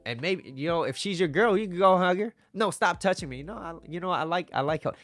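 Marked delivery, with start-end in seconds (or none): 2.5-3.4 higher, mock push-away; playful protest. Girlfriend squirming away from a hug, playful protest. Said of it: "You see how playful and fun this is?". 3.4-4.9 playful teasing. Acted. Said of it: "You see how playful and fun this is?".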